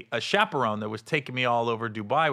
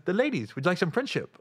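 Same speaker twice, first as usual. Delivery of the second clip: pushy tout; 5 semitones higher than usual. Retold or imitated. Club tout voiced in story.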